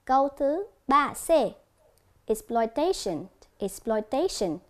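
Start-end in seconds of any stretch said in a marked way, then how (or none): 2.3-4.6 "Exploitation" with TA stressed; "Exploitation" said as ex-ploi-TA-tion; stress on third syllable. Shown as a demonstration. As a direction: punch the TA in "Exploitation". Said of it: "nhấn ở âm thứ ba".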